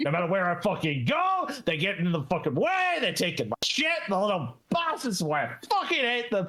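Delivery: furious, ranting dwarf voice throughout. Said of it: "And he's just like".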